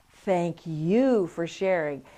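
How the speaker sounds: "Thank you for sharing" stretched slowly, word by word; slow, drawn out. Shown as a demonstration. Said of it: "I stood in front of the mirror".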